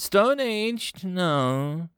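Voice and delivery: high-pitched irritated retort; snarled retort. A narrator's reading. Commander rejects officer's excuse, mildly snarling. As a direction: throw it back with a touch of a snarl. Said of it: "Vakar snarled".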